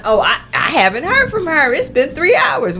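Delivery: fretting mother imitated; lightly voiced anxious mom; worried mom voice. Mother voiced worrying about daughter.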